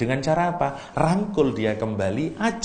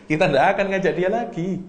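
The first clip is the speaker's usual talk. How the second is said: high, louder-than-usual acted refusal; pointed refusal in a raised voice; mock refusal; 8 semitones higher, 4 dB louder, faster than usual. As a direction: play someone adamantly ruling it out, pitched up. Acted refusal to include wrongdoer again.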